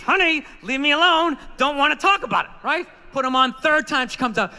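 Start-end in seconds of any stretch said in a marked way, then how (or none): 0.0-2.5 through gritted teeth. Retold or imitated. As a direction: hold back anger on "Honey, leave me alone", teeth clenched. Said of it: "Talking through my teeth".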